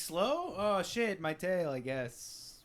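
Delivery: high questioning start, sinking into a slow shrug; mock-oblivious, trailing off slowly; indifferent Slowpoke. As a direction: play a dim creature barely bothered. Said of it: "They'd be like".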